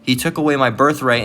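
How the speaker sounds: measured, emphatic Bible reading; scripture reading. Acted. Preacher reads Genesis to listeners, scripture reading. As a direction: read the verses out with weighted key words.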